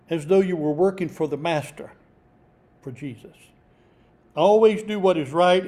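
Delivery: measured, declaimed Bible reading; emphatic scripture reading. Real, not acted. Preacher reading a passage for employees, emphatic scripture reading. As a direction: read it out firmly, leaning on key words. Reads scripture aloud to listeners.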